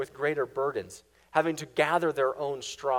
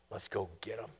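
much lower, rising at the end on go; low voice lifting into eager command; Pharaoh's order; 7 semitones lower, 12 dB quieter than usual. Acted. Preacher voicing Pharaoh urging pursuit, low rising call.

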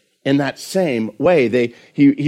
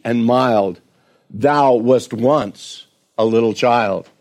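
reciting hymn words. Shown as a demonstration. Preacher reciting Wesley's hymn to the congregation, gently. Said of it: "Some of the words of that hymn were".

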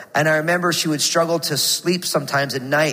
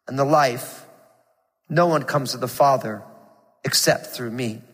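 scripture reading. Acted. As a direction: read the verses with solemn weight. Reads John 14 aloud.

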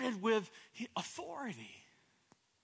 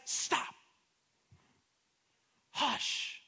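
whispered, calming stop and hush; hushed command; 4 semitones higher than usual. Acted. Jesus hushing his panicking disciples, whispered.

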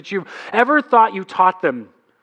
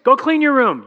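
higher, louder snapped order; dad out of patience, ten weeks in; fed-up order; 6 semitones higher, 3 dB louder than usual. Retold or imitated. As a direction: bark it at ignoring kids. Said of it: "not so awesome anymore".

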